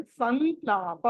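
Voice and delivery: సంలాప with a nasal n gliding into long laa; nasal anusvara. Shown as a demonstration. Teacher correcting students, సంలాప with nasal n. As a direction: hold the n in సంలాప, san-laa-pa. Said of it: "అని పలకాలి".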